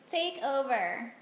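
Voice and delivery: slow, drawn-out English-accented "Take over"; "Take over" in a hammed-up English accent; English accent in Hungarian. Shown as a demonstration. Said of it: "béna vagyok angol akcentusban". (eltúlzott angol akcentus)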